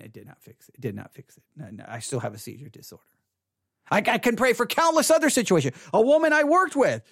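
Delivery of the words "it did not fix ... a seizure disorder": low, much softer, falling away; quiet aside. Real, not acted. Preacher admitting prayer never fixed the seizures, quiet resignation. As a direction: drop right down as if to yourself.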